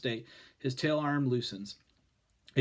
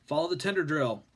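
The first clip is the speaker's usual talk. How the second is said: barking; 3 semitones higher, 3 dB louder than usual. A narrator's reading. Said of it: "Quint barks".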